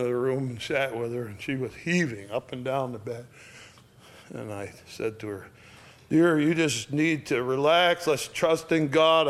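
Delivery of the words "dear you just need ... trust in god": moderately raised, projected comfort; loud reassurance. Retold or imitated. To a lonely dying woman, moderately loud. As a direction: speak up firmly into a dying person's ear. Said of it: "I said it loudly".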